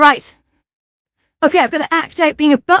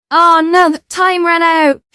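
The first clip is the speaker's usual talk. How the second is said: a louder, drawn-out groan of alarm; real dismay; 4 semitones higher, 4 dB louder, slower than usual. Real, not acted. Streamer to chat as the timer runs out, alarmed. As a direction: caught out by the timer and loudly dismayed.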